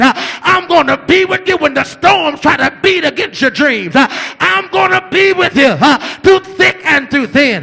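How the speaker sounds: rolling preacher's cadence, each line punched and answered with huh; full-force preaching. Acted. Preacher rousing the congregation, full-force preaching. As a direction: preach it hard, driving every line home.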